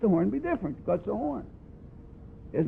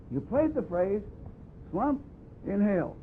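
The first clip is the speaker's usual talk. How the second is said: demonstrated breathing sequence; 3 dB quieter than usual. Shown as a demonstration. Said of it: "This should always be".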